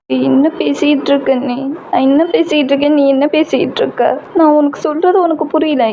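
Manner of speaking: put-on a touch of distress as the girl; upset girlfriend. Girl voiced by narrator. (லேசாக உயர்ந்த குரலில் பதறும் காதலி)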